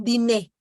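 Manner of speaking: "dînez" ending on a clear "ay"; final E pronounced. Shown as a demonstration. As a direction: say "dînez" as "dee-nay", Z silent. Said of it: "ahí sí dices la E".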